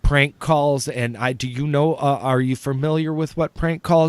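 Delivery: mildly flustered, imitated apology; apologizing. Owner apologizes to the prank caller, flustered apology. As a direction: stretch out a mock-mortified apology. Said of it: "she started apologizing".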